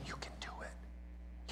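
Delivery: breathy whisper, slow and close. Retold or imitated. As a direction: whisper encouragement right in her ear.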